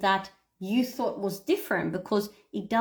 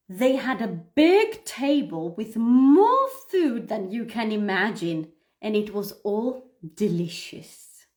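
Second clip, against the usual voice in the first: slow, lingering read with feeling on more; expressive reading; 3 dB louder than usual. Shown as a demonstration. Teacher demonstrating expressive reading aloud to students. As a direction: read it like you truly feel the feast. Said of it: "I'm gonna read it out loud so you guys can see me".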